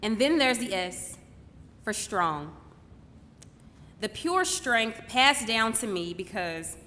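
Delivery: deliberate, poetic stage delivery with long pauses; spoken-word monologue. Acted. Daughter honouring her mother on stage, measured spoken-word delivery. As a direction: let each phrase land before the next.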